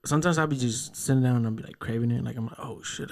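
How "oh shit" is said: whispered aside. Retold or imitated. Retold inner thought.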